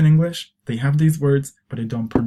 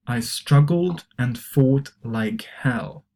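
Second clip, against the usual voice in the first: model reading; slower than usual. Shown as a demonstration. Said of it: "try to pronounce these expressions".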